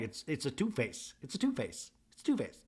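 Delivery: softly repeated verdict, imitating her; hushed mock pronouncement; quiet verdict. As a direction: drop it under your breath, matter-of-fact. Repeats Mary's verdict under breath.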